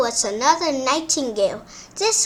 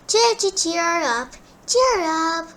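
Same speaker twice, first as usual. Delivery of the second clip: birdsong voice; 4 semitones higher than usual. Acted. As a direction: sing it like a bird. Nightingale sings.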